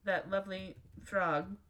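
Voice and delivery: dry, understated sarcasm; sarcastic. Real, not acted. Reader explaining who Pepe is, understated sarcasm. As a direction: say it with quiet irony. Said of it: "That was sarcasm, by the way".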